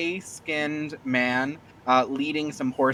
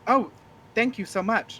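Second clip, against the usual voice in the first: dragonborn woman voice; 7 semitones higher than usual. Acted. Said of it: "she goes like".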